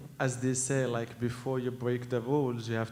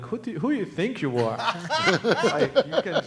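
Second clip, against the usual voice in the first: imitated elders' scolding; 8 semitones higher, 7 dB louder than usual. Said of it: "they're like".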